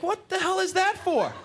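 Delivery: high, loud disbelief; startled outburst at the needle; shocked. Retold or imitated.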